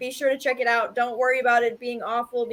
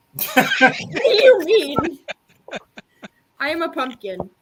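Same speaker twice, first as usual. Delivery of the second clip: loud, slow pirate-like puppet voice; 3 semitones higher, 5 dB louder than usual. Showing off a pumpkin puppet, speaking as the puppet in a piratey puppet voice. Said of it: "but I'm more piratey".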